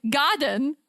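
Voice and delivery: put-on British-accented "Garden". Retelling the mix-up with staff, mock British accent. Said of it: "I did a British accent".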